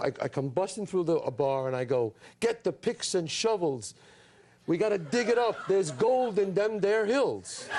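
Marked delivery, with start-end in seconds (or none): 2.4-7.7 slow, drawn-out mock cowboy line; hammed-up prospector line. Actor retelling his one movie line, slow hammy prospector. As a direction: recite it like a bad western extra, slowly. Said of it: "My line was this".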